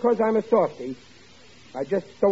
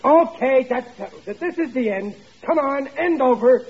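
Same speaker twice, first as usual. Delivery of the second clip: raised, higher-pitched exasperated command; stern father losing patience; exasperated order; 7 semitones higher, 3 dB louder than usual. Acted. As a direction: lay down the law, out of patience.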